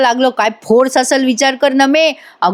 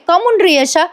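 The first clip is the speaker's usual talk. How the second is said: put-on coy young woman; 7 semitones higher than usual. Nami coyly asks Yasha.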